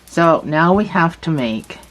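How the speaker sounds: talking around a stitch marker; mouth full. Real, not acted. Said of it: "I'm talking about a stitch marker in my mouth".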